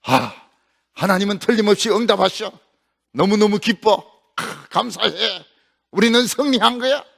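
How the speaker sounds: joyful prophet. Acted. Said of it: "엘리야는 막 기뻤습니다".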